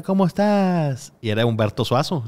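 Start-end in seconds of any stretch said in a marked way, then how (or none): 0.0-1.1 higher and slow, mock little girl. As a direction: play a little girl asking sweetly, slowly. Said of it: "voz de niñita".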